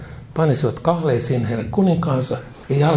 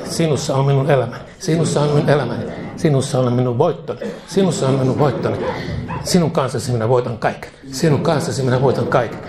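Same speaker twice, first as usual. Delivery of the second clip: fervent prayer. Acted. Preacher leads prayer to repeat.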